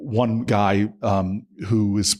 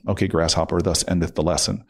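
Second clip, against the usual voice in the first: wry kung-fu master; 4 semitones lower than usual. Retold or imitated. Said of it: "thinking to myself".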